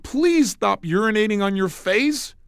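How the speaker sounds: slow, dead-serious odd request; slow matter-of-fact absurd line; deadpan pattern interrupt. Retold or imitated. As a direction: say it slowly, straight-faced, to jolt her. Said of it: "and I said".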